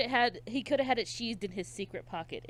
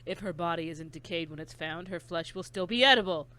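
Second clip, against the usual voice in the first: creepy killer. Acted. S1 voicing the killer.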